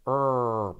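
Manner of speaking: long, low held "Er"; "Er" as one sustained r sound; R sound demo. Shown as a demonstration. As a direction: hold "Er" on a curled English r. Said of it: "hay que hacerla así".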